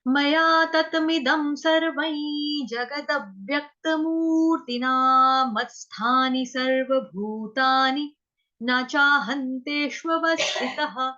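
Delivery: slow, measured verse chant; slow recitation. Shown as a demonstration. Teacher recites the verse again for revision, slow chant. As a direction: intone the verse slowly. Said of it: "इन श्लोकास का तात्पर्य".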